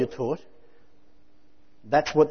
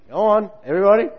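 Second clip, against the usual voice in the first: urging; 5 semitones higher, 6 dB louder, faster than usual. Real, not acted. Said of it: "urging the crowd".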